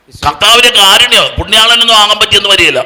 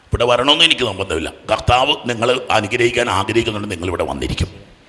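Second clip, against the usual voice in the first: soft, low-pitched disclaimer; subdued; 7 semitones lower, 10 dB quieter than usual. Real, not acted. Preacher telling the congregation he makes no demand, subdued. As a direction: back off quietly, making no demand.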